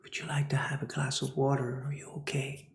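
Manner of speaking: soft whispered offer of water; gentle caring. Retold or imitated. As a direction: whisper it kindly to someone crying.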